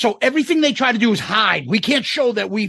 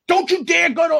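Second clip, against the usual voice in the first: mock urgent warning; 9 semitones higher than usual. Retold scientist warning pilot.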